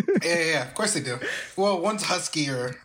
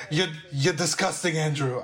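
mother voice. Retold or imitated. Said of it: "Why did your voice get deeper for my mother?".

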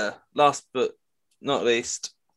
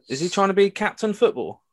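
higher, querying mother-in-law voice; mother-in-law quote; 8 semitones higher than usual. Retold or imitated. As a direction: ask it as a puzzled mother-in-law, pitched up. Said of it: "mother-in-law goes".

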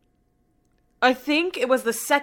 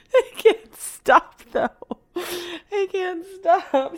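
crying, worn out; 8 semitones higher, slower than usual. Real, not acted. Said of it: "I'm laughing, but I can't stop crying".

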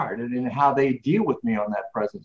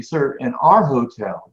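drawn-out, firmer polite clerk, a bit louder; slower polite refusal; 4 dB louder, slower than usual. Retold or imitated. Clerk politely repeats her refusal to the guest, slow and firm. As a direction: spell it out patiently, like repeating to a child. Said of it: "very politely again said to me".

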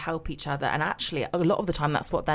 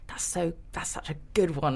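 soft, breathy inner remark; hushed aside; 5 dB quieter than usual. Retold or imitated. Reader reacting to a great turn of phrase, hushed. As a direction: say it to yourself, barely voiced.

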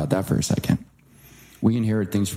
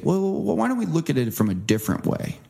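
higher, coaxing well well; gently steer someone to flip sides; stubborn dad talking someone round; mock dad reasoning; 8 semitones higher than usual. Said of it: "he'll just say".

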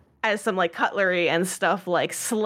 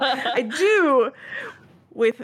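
projecting voice; 3 semitones higher than usual. Acted. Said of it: "projecting his voice to, like, everybody".

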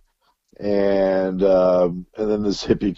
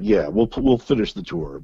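sheepish; 10 semitones higher than usual. Retold or imitated. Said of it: "They're like".

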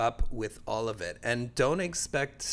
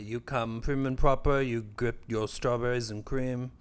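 a light put-on accent for Wimbledon manners; mock the prim Wimbledon crowd in a put-on accent. Joking about Wimbledon etiquette in a lightly put-on accent. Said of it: "What accent is that?".

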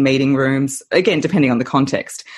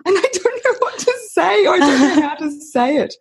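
higher, unsure client voice; anxious business owner; 11 semitones higher than usual. Retold or imitated. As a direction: play a nervous business owner. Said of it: "a lot of business owners say to me".

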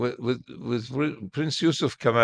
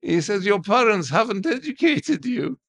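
shocked prince; 9 semitones higher, 4 dB louder than usual. Retold or imitated. The prince learns he knows no Persian, sounding appalled. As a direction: play the old prince appalled at him.

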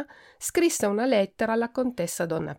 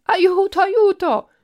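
much higher, loud mock-desperate yells; cry for help; 11 semitones higher, 8 dB louder, slower than usual. A narrator's reading. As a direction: shriek for help once more. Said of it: "lo si udì nuovamente gridare".

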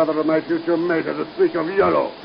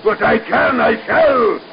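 villain's defiant vow; 3 semitones higher, 5 dB louder than usual. Acted. Villain defying captives.

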